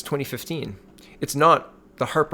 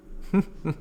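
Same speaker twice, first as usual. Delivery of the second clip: chuckle; 6 semitones higher, 6 dB quieter than usual. Real, not acted. Chuckles after reading the quote.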